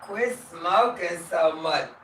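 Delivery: high, slow nagging fan; lightly voiced scolding fan; mock viewer voice. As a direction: whine it like a worried viewer. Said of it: "Y'all like".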